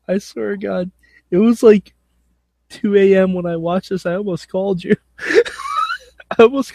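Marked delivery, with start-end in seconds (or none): 5.1-6.7 words breaking into laughter; laughing. Real, not acted. Co-host cracking up recalling two AM viewing, laughing. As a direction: laugh through the telling. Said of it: "laughing at the memory".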